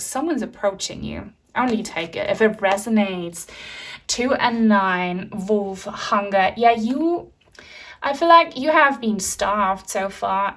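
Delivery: ordinary talk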